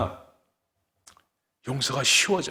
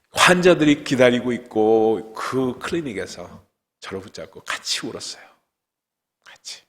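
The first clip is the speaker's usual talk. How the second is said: usual speaking voice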